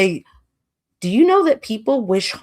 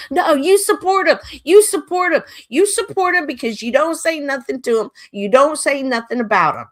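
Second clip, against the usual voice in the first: retold indignant retort; 8 semitones higher than usual. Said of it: "And I'm like".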